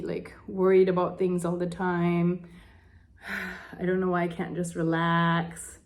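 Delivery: sighing, worn-down venting of frustration; frustrated, sighing. Shown as a demonstration. Demonstrating tapping for viewers, frustrated sighs. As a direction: let the frustration out with heavy sighs. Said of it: "saying all the things".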